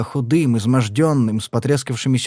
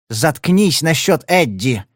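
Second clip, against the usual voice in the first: slow, ringing mock command; 3 semitones higher, slower than usual. Marti orders Padler to shut up about Eddie. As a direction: lean on each word, sharper. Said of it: "Её голос стал ещё звонче".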